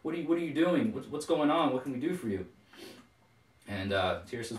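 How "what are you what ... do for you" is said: much higher, overjoyed, tumbling out fast; a mother thrilled to see her son again; ecstatic mother. Acted. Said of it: "absolutely ecstatic to see Tyr and Thor".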